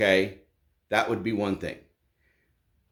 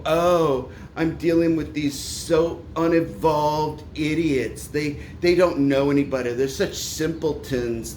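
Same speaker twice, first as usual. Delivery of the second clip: slightly slow, drawn-out mocking whine of disdain; mock college snob; 3 semitones higher than usual. Ranting host mimics college kids looking down on tradesmen, mock snobbish. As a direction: imitate a disdainful college kid, stretching the insults. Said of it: "you sound like one of those college little fucktards".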